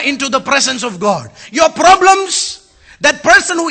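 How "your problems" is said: drawn out and raised; slow emphatic. Real, not acted. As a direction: stretch each word slowly. Preacher drawing out emphasis.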